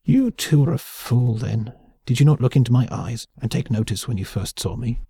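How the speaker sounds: wheezy old prisoner, mocking; a hint of a cunning old man.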